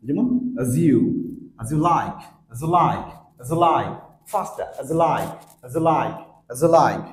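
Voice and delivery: as reduced to আজ before you like; weak form az. Shown as a demonstration. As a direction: say as as a quick আজ. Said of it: "উইক সাউন্ডটা হচ্ছে আজ". (as কে আজ করে দ্রুত উচ্চারণ)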